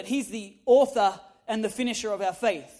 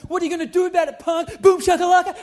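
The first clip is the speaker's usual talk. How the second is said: louder cocky taunt rising to a shout on the catchphrase; swaggering mock challenge ending in a yell; 5 semitones higher, 7 dB louder than usual. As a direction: goad the gang, hammed-up bravado. Retold taunt to a gang.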